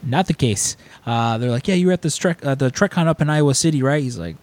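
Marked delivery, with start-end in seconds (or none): 1.7-4.0 imitating eager strangers, pitched higher; insistent recognition. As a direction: keep pressing the mistaken claim. Strangers press mistaken recognition.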